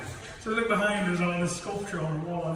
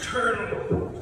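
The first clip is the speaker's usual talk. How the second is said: higher, louder call out to the turtle; calling rabbit; 6 semitones higher, 4 dB louder than usual. Acted. Rabbit calls to the turtle ahead: higher loud call.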